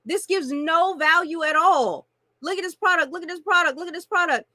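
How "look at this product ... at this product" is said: mock spammy pitch. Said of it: "the person will put up".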